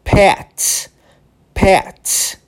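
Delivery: pet with a short crisp T on the end; crisp final T. Shown as a demonstration. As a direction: say pet ending in a sharp clean T. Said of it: "olha como a pronúncia fica".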